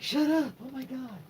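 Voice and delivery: put-on high, mortified squeal of a teased girl; embarrassed squeal. Embarrassed girl squeals at her teasing cousin, high-pitched.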